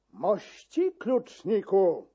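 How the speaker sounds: a measured angry rebuke; mild shout. Acted. Chamberlain scolding the key-keeper, mild slow shout. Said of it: "krzyknął".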